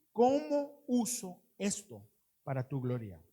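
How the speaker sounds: ¿Cómo uso esto para tu gloria? asked slowly and earnestly; humble, slowed-down prayer; slow sincere prayer. Shown as a demonstration. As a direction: pray it slowly, meaning it. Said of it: "model prayer he recommends".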